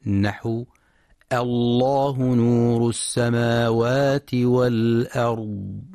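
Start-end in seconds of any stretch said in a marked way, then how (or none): 1.3-5.8 slow recitation of الله with a thin hamza and a thick lam; measured Quranic opening with a heavy lam in الله; heavy lam, light hamza. Shown as a demonstration. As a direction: start الله نور السماوات والأرض slowly, hamza light, lam heavy. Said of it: "فإن اللام تفخم مع مراعاة ترقيق الهمزة".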